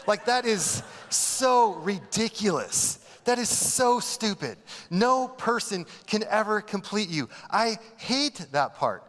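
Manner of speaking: high, slow, scornful disbelief; mocking a sappy film; disgusted scorn. Real, not acted. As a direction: pile on the contempt. Mocking movie as ridiculous.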